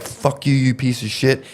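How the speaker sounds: mock yell at moderate volume; retold yelling. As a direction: imitate someone cursing a friend off. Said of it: "he just starts yelling at him".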